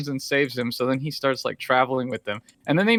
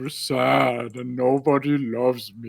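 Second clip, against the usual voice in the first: mock self-pity; 2 semitones lower, slower than usual. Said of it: "Disney films are not like".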